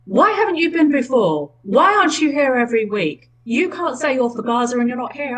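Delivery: imitating the angry organiser confronting the candidate, mildly hammed up; retold angry outburst. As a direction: replay her scolding him, a touch heated. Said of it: "she got quite angry with me".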